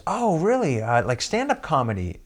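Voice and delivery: a hint of the skeptical producer; imitating the producer. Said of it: "And she goes".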